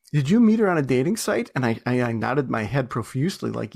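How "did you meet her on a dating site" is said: retold demand. Retold husband's yelled questioning.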